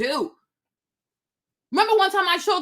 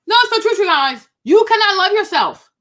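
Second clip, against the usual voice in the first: louder, higher, insisting it's true; raised voice, pressing viewers to believe her; emphatic outburst; 4 semitones higher, 8 dB louder than usual. Real, not acted. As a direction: hammer the point home to the chat.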